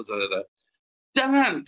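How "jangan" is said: high, raised one-word command; imitated sudden scolding cry; retold yell. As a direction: act out a startling parental shout. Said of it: "kalau saya teriak".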